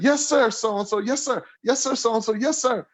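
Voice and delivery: high, meek repeated yes sir; imitating Bashir. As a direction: chirp it back high like a chastened helper. Bashir voiced, meekly repeating.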